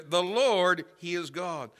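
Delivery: "Lord" punched loud and high; emphatic proclamation. Retold or imitated. Preacher showing the emphasis in the people's words, emphatic. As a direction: land hard on "Lord", ease off after. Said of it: "There was emphasis there".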